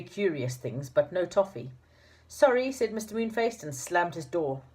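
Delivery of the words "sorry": curt. A narrator's reading. Moonface refuses, slams door.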